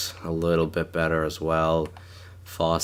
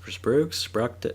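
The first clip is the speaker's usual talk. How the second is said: "Sprooks" dengan nada naik tinggi bertanya; "Sprooks" diucapkan ragu, naik tajam; questioning; 6 semitones higher than usual. Shown as a demonstration. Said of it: "I wonder if it's pronounced like".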